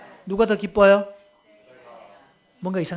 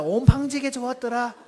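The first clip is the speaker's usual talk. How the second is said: higher-pitched Jeolla lilt; Jeolla dialect; 4 semitones higher than usual. Shown as a demonstration. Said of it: "전라도 버전 네 가지나 있습니다". (높은 톤의 전라도 사투리)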